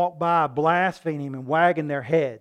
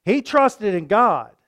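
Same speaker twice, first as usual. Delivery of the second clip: mocking priest; 6 semitones higher, 10 dB louder, slower than usual. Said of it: "He said".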